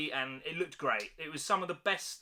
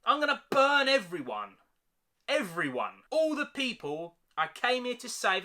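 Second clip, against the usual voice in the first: mock Daenerys; 5 semitones higher than usual.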